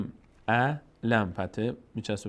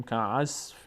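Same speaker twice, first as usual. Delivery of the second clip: nasal ghunna; 3 dB quieter, much slower than usual. Shown as a demonstration.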